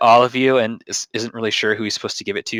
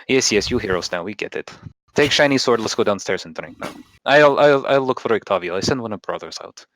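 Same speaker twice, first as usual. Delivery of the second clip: put-on fading Russian-accented barkeep. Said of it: "the accent's just going away".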